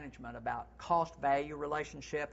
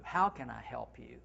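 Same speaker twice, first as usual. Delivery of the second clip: lower, gentle inviting question; warm offer; 4 semitones lower than usual. Shown as a demonstration. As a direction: sound truly happy to help. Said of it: "That's what I like better".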